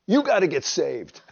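loud, high, no-nonsense demand; bold and blunt. Retold or imitated. Wife greeting husband at the airport, boldly blunt. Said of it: "Diana Kua boldness".

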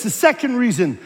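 ordinary delivery

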